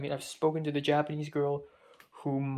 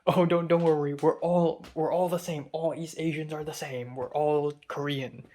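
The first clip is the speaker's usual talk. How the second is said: joking; 4 dB louder than usual. Retold or imitated. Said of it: "jokingly said".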